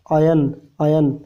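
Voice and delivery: अयन stretched slowly, the अय held; slow sounded-out syllable. Shown as a demonstration. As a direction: draw out अयन to show the अय. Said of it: "आय का sound आ गया".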